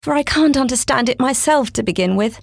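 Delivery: put-on a polite little girl explaining. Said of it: "Alice replied very politely".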